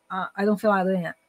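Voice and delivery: "I don't feel like doing it" mumbled into one blurred run; imitated slurred slang. Mother imitates her son declining a walk, words slurred together. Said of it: "fala de um jeito que a gente chama de cockney".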